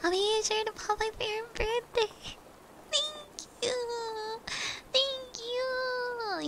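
very high, soft cooing voice; sugary sing-song gratitude; sweet thanks. Pretend. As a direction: coo your thanks in a drawn-out high pitch. Sweetly answering a birthday message.

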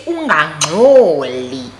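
mock inner voice telling her to stay silent; hushing inner voice. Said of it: "kukho ivoice ethi".

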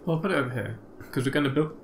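talking through hiccups; hiccuping between words. Real, not acted. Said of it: "Oh, I'm hiccuping again".

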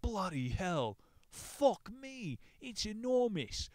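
high shocked exclamations; mock horror at a swollen leg; astonished outburst. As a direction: gasp it out in disbelief. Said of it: "gawped at my leg in astonishment".

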